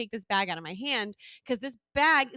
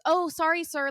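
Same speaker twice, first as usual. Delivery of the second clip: mock flight attendant; 4 semitones higher, 4 dB louder than usual. Flight attendant voiced in story.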